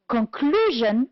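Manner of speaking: "conclusion" with CLU drawn out; stress on second syllable. Shown as a demonstration. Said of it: "On the second syllable".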